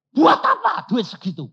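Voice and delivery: loud, high, laughing question; laughing disbelief. Retold or imitated. Preacher on the phone with the bank, laughing in disbelief.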